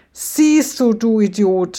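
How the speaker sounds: Satan yells at the monkey he is shaking; yelling. Acted. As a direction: bellow it at the fool. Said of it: "schreit Satan".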